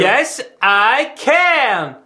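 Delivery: slow, drawn-out Obama-style delivery; Obama's slogan, very slowly; Obama catchphrase. Shown as a demonstration. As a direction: stretch it out like a campaign rally. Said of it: "Go a bit, bit more".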